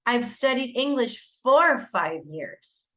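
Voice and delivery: slow, clear recast leaning on "for"; modeling recast. Shown as a demonstration. Teacher recasts the student's sentence, stressing for. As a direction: model it back slowly, stressing "for". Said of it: "the teacher provides a recast saying".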